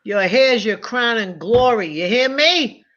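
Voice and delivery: slow stern mock scolding; father scolding his grown daughter, stern. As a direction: lay down the law like an old-school dad. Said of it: "father scolding daughter".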